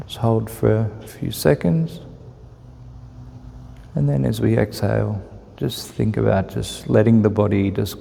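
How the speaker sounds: calm, unhurried meditation guide with long pauses; measured, even guidance, leaving room to breathe; guided meditation. Real, not acted. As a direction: ease listeners into relaxed breath awareness.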